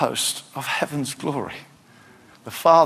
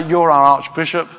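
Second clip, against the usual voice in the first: mock formal; 5 dB louder than usual. Shown as a demonstration. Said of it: "Didn't say".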